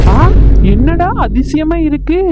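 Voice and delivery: slow, rising-and-falling disbelief; amazed. Acted. Man astonished that the women are teaming up, amazed. Reacts to unexpected team-up for quarrel.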